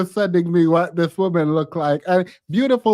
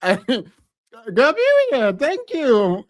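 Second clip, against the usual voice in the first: mock sweet brush-off; 4 semitones higher, much slower than usual. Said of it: "I was like".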